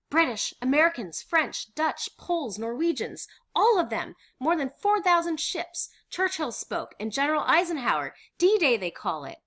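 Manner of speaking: high, loud, exuberant list; excited report. Acted. Miep telling who landed in Normandy, excited. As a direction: pile up the good news. Miep lists invasion news.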